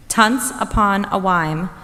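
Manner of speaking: spoonerized fairy tale opening, read slowly; jumbled syllables. Shown as a demonstration. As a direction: swap the first sounds of the words. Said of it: "Extended spoonerisms".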